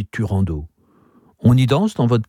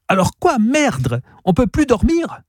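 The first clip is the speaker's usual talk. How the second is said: put-on grumpy woken girl; 11 semitones higher than usual. A narrator's reading. Child woken, complaining.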